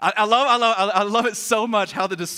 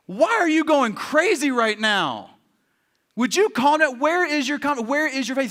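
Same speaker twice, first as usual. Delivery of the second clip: raised, insistent questioning; exasperated challenge; 5 semitones higher than usual. Acted. Jesus telling the disciples to calm down, exasperated challenge. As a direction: press the questions in acted exasperation.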